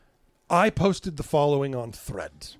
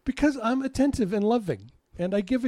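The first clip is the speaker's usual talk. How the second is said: playful boast; 10 semitones higher than usual. Real, not acted. Teasing boast to wife.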